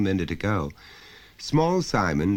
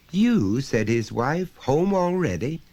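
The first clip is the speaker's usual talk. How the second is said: higher, louder startled greeting; surprised; 9 semitones higher, 3 dB louder than usual. Acted. Wife greeting husband home unexpectedly early, surprised. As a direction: caught off guard by him coming in.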